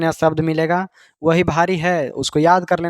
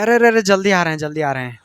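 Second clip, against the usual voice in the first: eager reply; faster than usual. Retold or imitated. Son eagerly rushes home.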